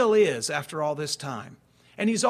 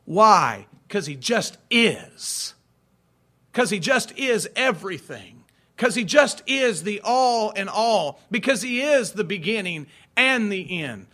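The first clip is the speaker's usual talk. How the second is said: louder and louder with each line; building proclamation; 3 semitones higher, 5 dB louder than usual. Real, not acted. Pastor to congregation, rising emphatic proclamation. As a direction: build each repetition to a peak.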